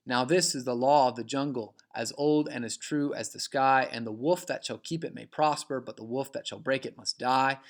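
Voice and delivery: put-on galloping da-da-DUM beat, "as OLD and as TRUE as the SKY"; rolling verse rhythm stressing "PROSper" and "DIE"; anapestic meter. Shown as a demonstration. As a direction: recite in threes, landing on "LAW", "JUNG", "WOLF". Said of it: "anapestic feet are trisyllabic".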